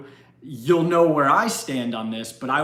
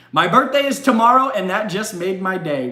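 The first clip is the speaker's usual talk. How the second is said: excited; 4 semitones higher, 4 dB louder than usual. Retold or imitated. Reading a viewer's excited message.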